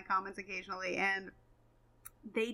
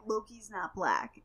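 mock commenter; slower than usual. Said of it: "he was like".

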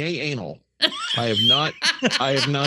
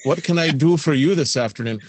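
mock psychic hotline. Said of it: "somebody sitting in a room there".

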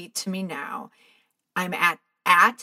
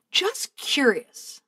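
tentative lilt; 6 semitones higher, much slower than usual. Shown as a demonstration. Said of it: "You might say".

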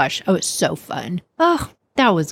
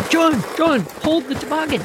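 high-pitched cry for help; urgent calling out; 8 semitones higher than usual. Acted. Alarmed boy and dad with a runaway toboggan, urgent high call.

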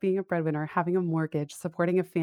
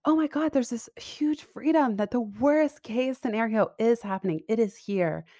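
excited inner voice; 5 semitones higher than usual. Retold or imitated. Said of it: "it's like".

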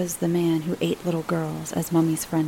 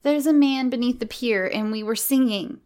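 put-on higher-pitched child voice; little girl; 6 semitones higher than usual. Miranda tells Mummy about the man, little girl voice. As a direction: tell it as a small child would.

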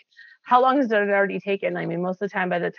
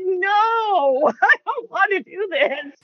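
mock reluctant refusal; 12 semitones higher, much slower than usual. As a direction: play the grudging friend who backs out. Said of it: "And they're like".

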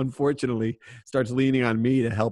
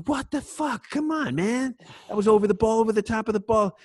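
furious player yelling at the referee; angry protest; 11 semitones higher than usual. Retold or imitated. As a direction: shout your complaint up high.

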